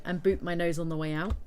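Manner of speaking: loud cheeky blurt; cheeky burst. Real, not acted. Joking cheeky aside to viewers.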